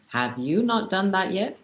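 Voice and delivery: YOU emphasized, rising questioning end; stress on YOU. Shown as a demonstration. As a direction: lean on YOU in a pointed question. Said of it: "if you emphasize on".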